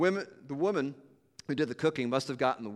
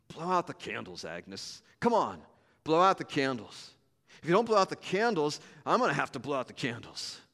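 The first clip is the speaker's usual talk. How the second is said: gruff mumble. Acted. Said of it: "Harry gruffly mumbled".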